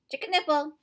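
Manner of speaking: loud high outburst; tic shout. A narrator's reading. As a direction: burst out with the tic.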